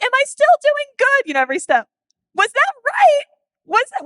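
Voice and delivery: nervously seeking reassurance each step; anxious child. Retold or imitated. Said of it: "And she's like".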